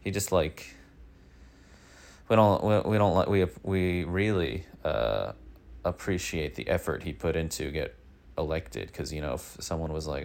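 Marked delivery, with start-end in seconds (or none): 2.3-7.0 flustered, louder restart. Real, not acted. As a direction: trip over the words in a rush. Stammering over a congressman.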